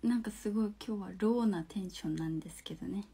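whispered, low and quick, tired mood; low-energy whisper. Real, not acted. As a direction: murmur it under your breath, no energy. (小声でささやく低いテンション)

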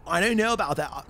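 California surfer accent; lightly put-on Valley surfer voice. Shown as a demonstration. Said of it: "Just surfer voice".

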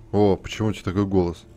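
ordinary talk

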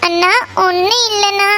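words caught in tears; young woman denying she was crying. Acted. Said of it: "ஏம்மா அழுதுட்டு இருக்கிற?".

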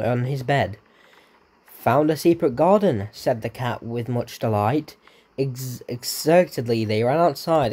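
slow bedtime-story read; a touch of children's story voice; storybook reading. Acted. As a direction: read it like a picture book to a child. Reads a picture book aloud.

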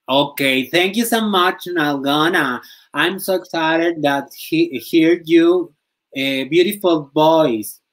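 slow, high, put-on English; mock English speaker. Gushing to a fan in hammed-up English. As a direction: hams up his broken English to thank the fan.

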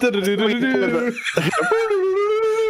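high sung-out cartoon scene-change noise; playful, high-pitched transition trill; transition jingle. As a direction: imitate a TV transition sting with your mouth. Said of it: "Batman transition".

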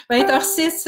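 amused repeat. Real, not acted.

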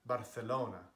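Barcelona said the native way; Catalan pronunciation. Acted. Correcting someone on how Barcelona is pronounced, Catalan pronunciation. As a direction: say Barcelona as in Spain, with native sounds. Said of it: "when I'm speaking Catalan".

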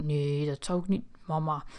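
a guilty little retreat to mom; sheepish backing down. Acted. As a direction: drop the voice, caught out and meek.

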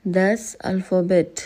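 "दस अल्फ़ाबेट" said slowly as German das Alphabet; slow careful "दस अल्फ़ाबेट", German a sounds; German word demo. Shown as a demonstration. Teacher modelling the German title for beginners, slow and careful. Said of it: "Once again".

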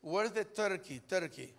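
imitating halting English with a Spanish accent; English as best you can, heavy Spanish accent; makeshift English, Spanish accent. Mother-in-law asking a Walmart worker, Spanish-accented English. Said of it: "como pudo, le habló inglés".

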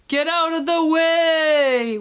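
horn shout. Shown as a demonstration. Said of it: "which shouts".

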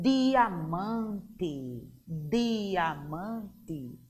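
"diamante" very slow, syllables drawn out; D pronunciado com força. Shown as a demonstration. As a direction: stretch out "diamante" with a firm D. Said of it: "Pronunciamos com mais intensidade". (diamante bem devagar, com D forte)

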